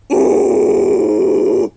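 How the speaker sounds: very loud airy growl; false fold growl. Shown as a demonstration. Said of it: "it'll sound even louder".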